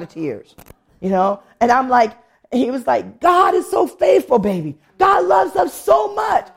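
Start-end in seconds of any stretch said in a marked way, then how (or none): 3.2-6.5 high, drawn-out retold exclamation; imitating his fervor, pitch leaping up; fervent praise. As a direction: exclaim it like an overwhelmed believer. Husband's tearful exclamation, retold.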